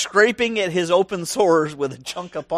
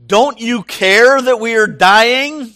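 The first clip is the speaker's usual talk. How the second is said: slow, higher, louder frightened cry; panicked plea; 6 semitones higher, 8 dB louder, slower than usual. Retold or imitated. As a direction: plead in terror over the storm. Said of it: "that sounds more like Peter".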